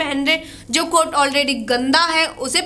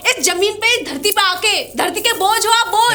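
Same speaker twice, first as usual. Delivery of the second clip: higher, heated accusation; angry insult; 4 semitones higher than usual. Acted. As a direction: hurl it at your husband in a rage. Wife hurls insult in marital quarrel.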